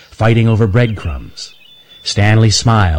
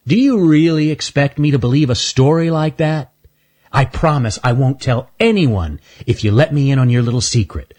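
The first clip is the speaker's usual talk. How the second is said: higher, sly teasing squirrel; Earl the squirrel; 6 semitones higher than usual. Acted. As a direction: needle him like a smug bully. Earl coaxing.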